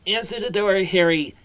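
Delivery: high, loud shouted command; barked order. Acted. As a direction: bark it at the boy from the armchair. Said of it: "barked from her armchair".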